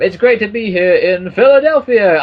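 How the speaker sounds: high, loud, hyped-up wrestling ring announcer voice.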